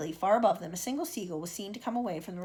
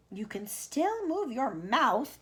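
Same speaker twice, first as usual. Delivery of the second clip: dry earthworm; 3 semitones higher, 4 dB louder, much slower than usual. Acted. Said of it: "the earthworm said".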